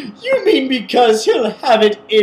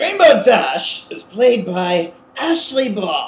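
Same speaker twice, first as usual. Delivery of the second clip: terrible, unconvincing put-on female voice; 2 semitones lower than usual. Reading the credits line: terrible Ashley Ball impression. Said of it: "doing a terrible impression of Ashley Ball".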